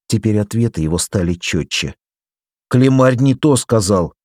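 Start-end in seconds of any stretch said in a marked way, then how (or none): 2.7-4.1 mildly surprised, higher-pitched reply; raised, understated astonishment. A narrator's reading. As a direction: say it with a touch of puzzlement. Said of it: "удивился он".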